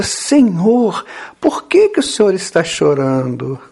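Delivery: lightly acted, concerned question; Pedro. Pedro asks weeping Jesus why, lightly voiced concern. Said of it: "Então Pedro pergunta".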